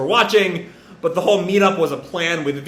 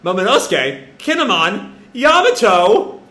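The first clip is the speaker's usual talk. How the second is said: higher, cheery hello; friendly greeting; 5 semitones higher than usual. Retold or imitated. Yamato waving off the crew, friendly greeting. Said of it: "this friendly little wave".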